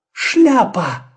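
high bright cry of discovery; excited exclamation. Acted. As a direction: blurt it out with delight. Sudden idea exclaimed. (радостный возглас)

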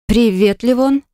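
choked, rising on the name; strained greeting. A narrator's reading. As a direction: squeeze the words out. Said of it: "сдавленно проговорила Марина". (сдавленно)

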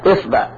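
إصبع said "isba'", i then a; kasra on hamza. Shown as a demonstration. Teacher showing kasra forms, إصبع as "isba'". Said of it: "نأخذ كسر الهمزة".

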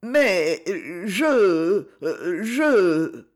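frightened halting stammer. A narrator's reading. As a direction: trip over the words in alarm. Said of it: "elle balbutia".

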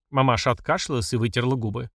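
usual speaking voice

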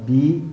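بي with the jaw dropped toward the floor of the mouth; long بي, lips unrounded. Shown as a demonstration. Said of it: "ننزل إلى قاع الفم بالباء". (بي بكسرة مع النزول إلى قاع الفم)

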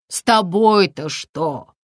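usual speaking voice

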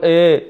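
إي opened toward "eh"; mispronounced open vowel on إي; mistaken hamza. Shown as a demonstration. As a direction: show the fault, a slack e in place of ii. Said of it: "إما أن يقول".

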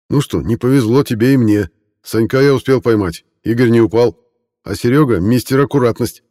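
loud, high cheerful banter. Acted. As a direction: joke with the squad loudly. Cheerful banter after landing.

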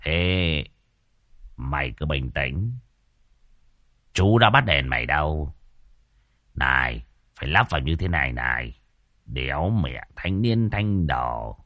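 put-on gruff old man Đồng. A narrator's reading. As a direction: talk down to the kid, low and rough. Lão Đồng voiced low.

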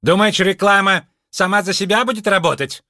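громкий высокий сварливый упрёк; отчитать бездельника; раздражённый упрёк. A narrator's reading. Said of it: "фурией вылетела женщина". (Мардж отчитывает Лунветра, сварливо и громко)

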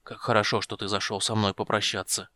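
put-on a dying old man's weak voice; faint and frail, barely holding on. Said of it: "слабым голосом выговорил гном".

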